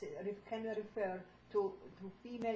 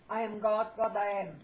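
louder affirmation; spoken up to the class; speaking up; 5 dB louder, much faster than usual. Real, not acted. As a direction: declare it out loud. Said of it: "when you speak up".

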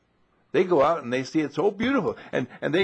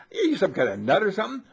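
muddy man asks; 7 semitones higher, faster than usual. Retold or imitated. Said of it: "And the guy says".

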